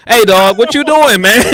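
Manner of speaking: very high, loud mock disbelief; incredulous gang member. Gang member asks the recruit what he is doing, very high and loud. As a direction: yell at him like a fed-up crew member.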